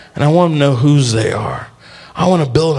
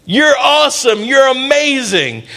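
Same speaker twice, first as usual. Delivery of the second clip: high, proclaiming affirmation; rousing praise; 7 semitones higher than usual. Acted. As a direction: build them up in a high, ringing voice. Angel proclaims praise to Gideon.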